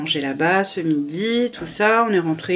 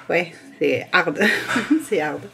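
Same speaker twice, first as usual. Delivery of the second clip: laughing. Real, not acted. Laughing about tiredness.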